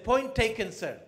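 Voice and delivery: high, loud point taken through laughter; conceding with a laugh. Retold or imitated. Official concedes to the ambassador, laughing loudly. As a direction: give in, amused.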